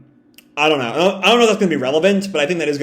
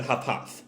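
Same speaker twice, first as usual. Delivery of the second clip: heavy huffing; 4 semitones lower, 12 dB quieter than usual. Retold or imitated. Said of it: "She's breathing heavy".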